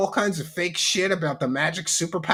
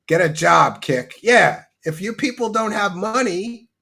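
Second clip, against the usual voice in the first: imitating Darkside Phil; 4 semitones higher, 5 dB louder than usual. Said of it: "shit that Darkside Phil has been saying".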